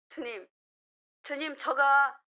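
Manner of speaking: loud, pleading cry to the Lord, slowing on "노래가"; fervent prayer. Retold or imitated. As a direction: pour out the prayer with fervor. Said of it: "이렇게 기도해요". (간절하게 부르짖는 기도)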